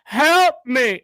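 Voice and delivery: high, loud crying plea; mock cry for help. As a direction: whimper and yell for help. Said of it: "he's just sitting there going".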